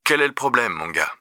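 quiet telephone voice; phone operator. Acted. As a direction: calmly question a young caller, dropping off at the end. Operator questions the boy.

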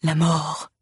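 hollow graveyard intonation; sepulchral voice. A narrator's reading. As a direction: intone it from the tomb. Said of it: "répète d'une voix sépulcrale".

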